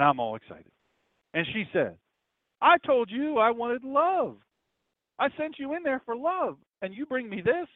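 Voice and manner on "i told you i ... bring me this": higher, slow complaining wife voice; indignant wife. Retold or imitated. Wife scolding her husband over the wrong soup, indignant and high. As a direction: play the fed-up wife, drawn out and high.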